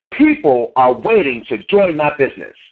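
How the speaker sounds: slow, low, deliberate declaration; deep incantation. Shown as a demonstration. Speaker shows his morning incantation, slow and low. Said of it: "My voice gets deep".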